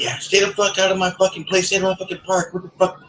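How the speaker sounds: squeaky put-on voice of the angry guy; imitating neighbor. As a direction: mimic the neighbor yelling back.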